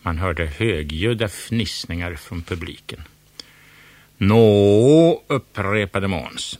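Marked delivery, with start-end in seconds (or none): 4.2-5.2 much louder, demanding; loud impatient prompt; impatient "well". Acted. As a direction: demand an answer now. Impatient host demands answer.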